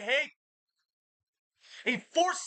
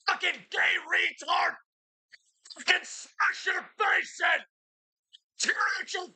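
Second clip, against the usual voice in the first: furious threats; 7 semitones higher than usual. Real, not acted. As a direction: scream threats at him. Threatening the voice in head.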